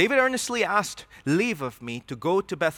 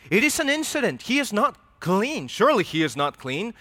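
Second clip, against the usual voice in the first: paranoid Saul; 5 semitones higher than usual. Acted. Saul's suspicious thoughts voiced.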